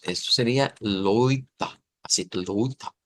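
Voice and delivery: "loita" slow, with oi diphthong; "loita", lento, marcando el diptongo oi; transliterated loita. Shown as a demonstration. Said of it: "diríamos". ("loita" pronunciado claro)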